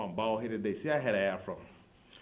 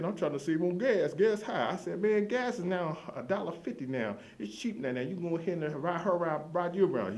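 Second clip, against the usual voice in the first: excited argument; 8 semitones higher than usual. Retold or imitated. Arguing about gas prices.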